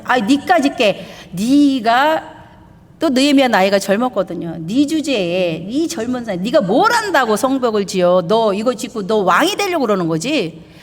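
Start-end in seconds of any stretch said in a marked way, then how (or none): 0.0-2.4 mocking. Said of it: "막 조롱하기 시작해". 4.6-10.7 mocking. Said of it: "조롱하고 비웃고".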